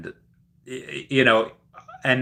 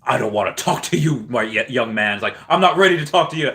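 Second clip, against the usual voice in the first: flustered Will. Retold or imitated. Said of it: "And he's like".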